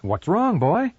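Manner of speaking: a hint of a concerned man asking his dog; lightly voiced, curious question to the dog; gently puzzled owner.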